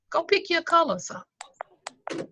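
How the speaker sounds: high, slow whisper; airy, whispered send-off; whispered dismissal. Retold or imitated. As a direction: wave them off in a drawn-out whisper. Dismissing the woman after warning.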